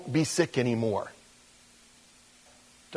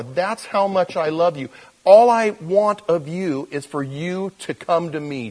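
God's loving promise; 5 semitones higher than usual. Acted. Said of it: "God looks at you and me and he says".

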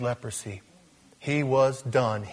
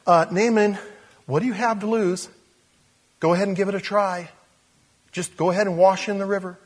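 a bit higher, coaxing; coaxing servant; 8 semitones higher, 4 dB louder than usual. Acted. Servant urging Naaman to try the river, coaxing. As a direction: gently talk him into it.

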